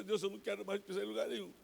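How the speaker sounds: mock-tearful loud prayer; crying out to God. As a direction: cry out passionately to God. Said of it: "eu comecei a chorar".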